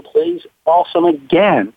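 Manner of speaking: normal talking voice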